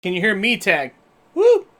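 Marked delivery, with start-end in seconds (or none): 1.3-1.7 high, loud woo; excited whoop. Real, not acted. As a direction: cheer it out. Cheering as audio works.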